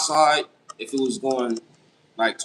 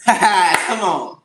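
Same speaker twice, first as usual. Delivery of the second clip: laughing; 3 semitones higher, 7 dB louder than usual. Real, not acted. Laughs at chat question.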